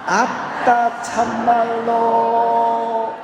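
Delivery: very high, long-drawn bashful Jeolla dialect. Shown as a demonstration. Leading the congregation in a shy love confession, Jeolla dialect. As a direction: stretch the Jeolla phrase out high and coy. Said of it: "차마 표현을 못하니까 몸을 베베 꼽니다".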